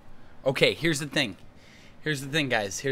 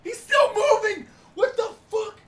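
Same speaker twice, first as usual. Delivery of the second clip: very high, panicked cry; shrieky, drawn-out disbelief; horrified wail; 10 semitones higher, 3 dB louder than usual. Real, not acted. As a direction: wail in real horror. Horrified the roach still moves.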